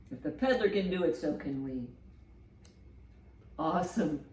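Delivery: usual speaking voice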